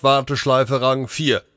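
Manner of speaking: high-pitched automated radio announcement; robot dispatcher. Acted. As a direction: report it like a machine operator. Robot dispatcher reports over radio.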